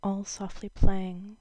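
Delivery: measured poem recital with pauses between lines; lightly performed poetry reading. Acted. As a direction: read the verse aloud, letting each line settle. Reads a poem aloud.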